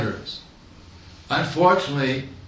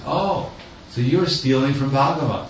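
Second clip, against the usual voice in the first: mock surprised realization; 2 semitones higher than usual. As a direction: voice a teacher's knowing, teasing accusation. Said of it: "eyebrows raised up and said".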